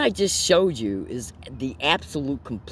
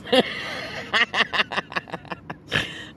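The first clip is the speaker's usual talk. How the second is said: breathy laugh; 7 semitones higher than usual. Real, not acted. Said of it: "I don't know why I'm laughing".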